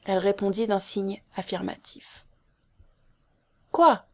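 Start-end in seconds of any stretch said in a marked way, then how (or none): 3.7-4.0 high, loud exclamation; shocked question. A narrator's reading. Man reacting to her silent yes, shocked. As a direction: blurt it in disbelief.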